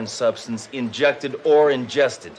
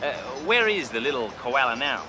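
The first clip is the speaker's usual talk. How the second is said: fake Australian accent; 3 semitones higher than usual. Undercover cop posing as a rich car dealer, in a hammy Australian accent. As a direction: play a cocky Australian tycoon in a put-on Australian accent. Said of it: "Name's Crocodile Bruce".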